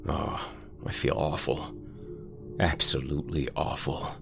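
soft, half-whispered remorse; a quiet, broken apology; hushed and guilty. Acted. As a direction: confess it softly, ashamed and scared. Carl hushed, guilty on the phone.

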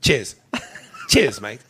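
playful mock-British farewell; British accent. Host signing off a UK listener's email, in a British accent. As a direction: sign off in a put-on British accent. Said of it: "that is such a fucking sexy accent".

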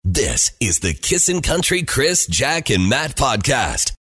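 slow, booming station ID; big produced radio tag; radio station ident. Acted. Recorded show ident.

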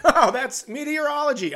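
high, mock impressed. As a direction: fake delighted stranger. Imagined listeners' reaction.

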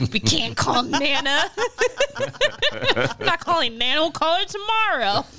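laughing through a refusal. Retold or imitated. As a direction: say no while giggling. Laughing while refusing son.

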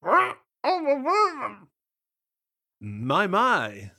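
high yelled greeting; yelling down. Acted. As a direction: shout down from a branch, mouth full. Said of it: "the raven yelled down with a mouthful of cheese".

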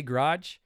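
GARAGE squeezed into one syllable, GRAHJ; own pronunciation. Shown as a demonstration. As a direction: say "garage" as grahj, swallowing the first vowel. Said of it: "the way I say garage".

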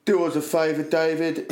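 Cockney imitation. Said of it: "Cockney John. He went".

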